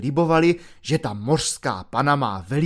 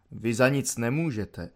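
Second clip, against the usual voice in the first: soft, lower, mock-soothing reassurance; calm him like a child, gently; 4 semitones lower, 5 dB quieter than usual. Volunteer pretends to comfort the corporal, soft and lower. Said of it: "chlácholivým tónem".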